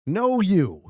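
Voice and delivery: high and loud playful comeback; playful no you. Real, not acted. Streamer bouncing compliment back to chatter, playful. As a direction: toss the compliment straight back.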